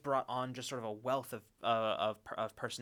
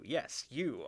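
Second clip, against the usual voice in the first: put-on old radio announcer; 2 semitones higher than usual. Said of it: "nineteen twenties radio announcer voice".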